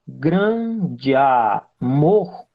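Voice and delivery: "grande amor" said slowly as one unbroken chain; slow demo with the weight landing on "mor"; slow linked phrase. Shown as a demonstration. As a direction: draw out "grande amor" with no pause between the words. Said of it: "se eu entendo grande amor como uma sequência".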